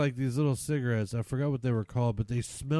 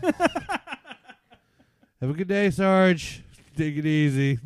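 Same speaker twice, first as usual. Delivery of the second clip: higher, slow, through laughter; laughing mock farewell; 5 semitones higher, 3 dB louder, much slower than usual. Son mock-saluting dad as Sarge, laughing. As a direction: wave him off, laughing.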